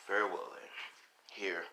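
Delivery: sighing, resigned agreement; reluctant villain. Acted. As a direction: give in wearily, lightly in character. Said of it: "And he's like".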